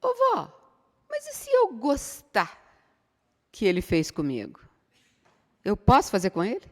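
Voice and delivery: a hint of a grandson asking grandma; child's question. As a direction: ask innocently like a small child. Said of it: "Aí falou pra mim assim".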